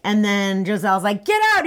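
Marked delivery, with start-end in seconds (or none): 1.2-1.6 high-pitched "no way" exclamation; acted, pitched-up shock; mock astonishment. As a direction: exclaim it in hammed-up disbelief. Acted startled exclamation in retelling.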